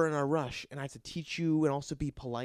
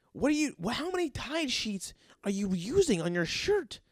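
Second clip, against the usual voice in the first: higher, incredulous grilling; exasperated rant; 4 semitones higher than usual. Acted. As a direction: disbelief building at the dryer-sheet smell. Ranting at the smelly guy.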